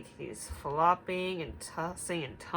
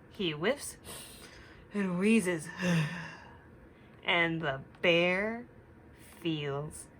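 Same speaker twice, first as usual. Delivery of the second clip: put-on reading to children; slower than usual. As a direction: read it gently to little listeners. Reading story aloud to children.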